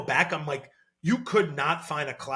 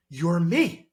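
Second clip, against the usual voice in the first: laughing, louder and higher as it builds; half laughing at a kid who is just like him; laughing disbelief; 5 semitones higher, 6 dB louder than usual. Retold or imitated. Father retells daughter teasing.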